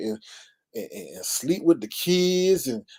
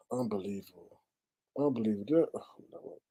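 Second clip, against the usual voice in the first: sighing disbelief; 5 semitones lower, 10 dB quieter than usual. Real, not acted. Overwhelmed by the story.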